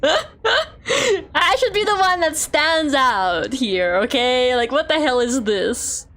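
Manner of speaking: laugh-cry as you protest; laughing complaint. Real, not acted. Laughing while complaining about confusion.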